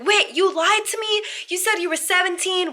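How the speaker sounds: a high, startled "wait, what?"; shocked realization. Retold or imitated. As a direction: play the guy catching the lie. Guy realizes he was tricked.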